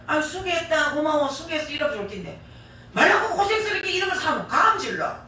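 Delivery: bossy commanding thanks, a bit loud; mock scolding tone. Preacher mimics husband's curt thanks, scolding. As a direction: bark out the thanks like an order. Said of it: "야단치는 것 같아".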